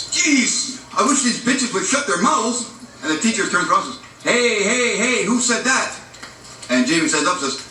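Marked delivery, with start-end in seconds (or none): 0.1-2.6 high-pitched, exasperated grumble; pissed off. Acted. Jamie fuming at classmates who got to leave, acted annoyance. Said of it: "Jamie's all pissed off and says". 4.2-5.9 higher-pitched mock reprimand; challenging teacher. Teacher turning round on the class, acted challenge.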